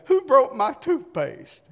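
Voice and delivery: high, loud outraged cry from the bathroom; indignant husband. Retold or imitated. Husband shouting from the bathroom, outraged. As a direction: act the husband yelling out of the bathroom. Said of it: "and he said".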